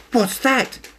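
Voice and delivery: high startled little voice; jumpy small cat. Acted. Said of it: "he thought".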